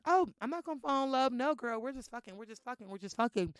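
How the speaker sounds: mock friend voice. Quoting friends' casual denial.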